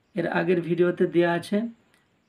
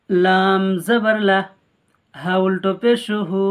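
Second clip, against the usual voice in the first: slow, louder, spelt out syllable by syllable; the teacher spells লাম জবর লা slowly and loudly for learners; slow spelling; 4 dB louder, slower than usual. Shown as a demonstration. The teacher spells it slowly for viewers. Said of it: "তাড়াতাড়ি পড়তে হবে".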